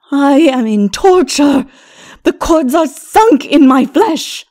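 high, loud cries of pain, slowed; agonised groaning. A narrator's reading. Lilith with cords in her flesh, agonised wail. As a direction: wail it slowly, as if tortured. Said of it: "she groaned".

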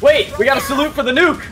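high laughing call; laughing shout. Real, not acted. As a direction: yell it while laughing.

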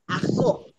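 "argot" with guttural r, silent t; French-accented "argot"; French pronunciation. Shown as a demonstration. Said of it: "no argot".

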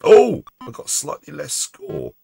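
high, slow counting out; calling out shots. Real, not acted. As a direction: call out each shot excitedly. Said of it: "if I call out".

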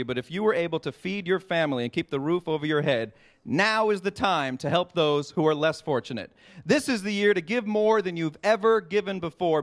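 earnest charity appeal, gently lowering in pitch; sober, heartfelt plea to donors; serious appeal. Real, not acted. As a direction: drop the jokes and appeal sincerely. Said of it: "now let's get serious".

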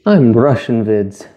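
acting as Russian vids. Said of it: "We're gonna act it out".

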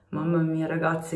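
ordinary talk

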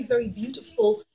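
plain reading voice

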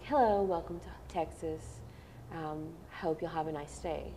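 careful neutral American accent, measured pace; without the Texas accent. Shown as a demonstration. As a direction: say it evenly, with no Southern accent. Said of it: "slower without the accent".

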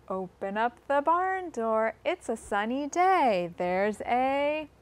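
usual speaking voice

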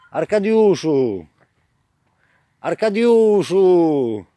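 very slow stretched calling; drawn-out call. Real, not acted. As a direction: stretch every syllable while calling. Calling officer repeatedly. (bardzo przeciągłe wołanie)

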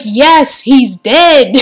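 loud blunt retort; mock retort. Gamer shouting back at Lara in mockery. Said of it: "I'm like".

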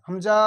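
হামজা with the final vowel dragged out; wrongly stretched হামজা. Shown as a demonstration. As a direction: stretch the last syllable of হামজা as a mistake. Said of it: "এমন হবে না".

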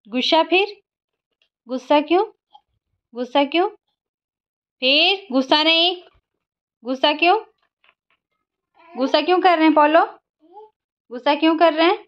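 put-on high coaxing baby talk to a sulky toddler; sing-song asking why so grumpy; mother coaxing sulking baby, high and sing-song.

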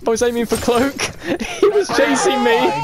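high-pitched, insistent excuse; agitated protest. Real, not acted. Player explaining his stray snowball, agitated protest.

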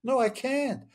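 retold panicked protest, not shouted; desperate refusal. Arguing with the voice underwater.

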